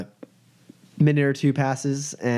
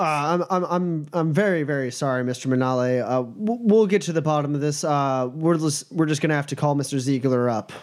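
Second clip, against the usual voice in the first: a slightly higher, hesitant, stumbling apology; flustered guard smoothing things over; lightly voiced apologetic guard; 4 semitones higher than usual. Guard apologizes to an upset client, lightly flustered.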